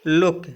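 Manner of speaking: लुक with a short 'u', closed quickly by k. Shown as a demonstration. Teacher showing learners लुक, short U. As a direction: say लुक with double O kept short. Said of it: "छोटी की मात्रा हम बनाएंगे".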